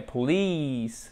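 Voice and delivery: "police" with a drawn-out ee, stressed at the end; "police" as po-LEEECE, falling; long relaxed I. Shown as a demonstration. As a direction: stretch the second syllable of "police". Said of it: "qui a un I décontracté, long".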